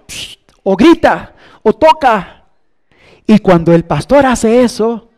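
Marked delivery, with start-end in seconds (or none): 0.1-2.4 imitated whistle. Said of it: "es chifla".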